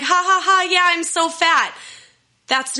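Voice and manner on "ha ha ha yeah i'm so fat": high, loud fake laugh at herself; hammed-up self-mocking ha ha ha; forced laugh. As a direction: laugh it off before they can. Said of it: "I was like".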